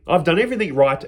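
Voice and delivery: "I've done everything right" in a mildly indignant retelling voice, level pitch; a hint of protest, stress on "everything"; lightly indignant son. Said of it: "He goes".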